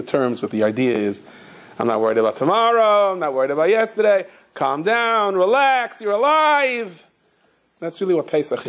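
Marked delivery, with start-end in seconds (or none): 1.8-7.0 imagined reassurance. Retold or imitated. Imagined old lady telling cop to relax, acted reassurance. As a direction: stretch the last words out, pitched up. Voicing old lady's calm outlook.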